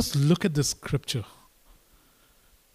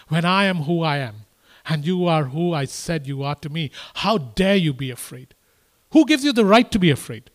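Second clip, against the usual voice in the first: God challenging. Acted. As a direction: build to an indignant demand. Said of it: "is what he's asking".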